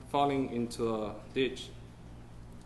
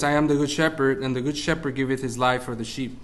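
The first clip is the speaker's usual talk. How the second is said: scripture reading. Acted. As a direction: read the Bible verse out like from a pulpit. Reads scripture aloud.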